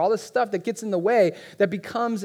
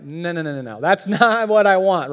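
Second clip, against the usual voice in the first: wife; 5 dB louder than usual. Retold or imitated. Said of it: "my wife's looking at me like".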